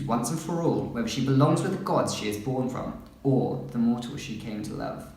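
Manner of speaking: measured synopsis reading; book blurb read-aloud. Real, not acted. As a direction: read out the back-cover blurb.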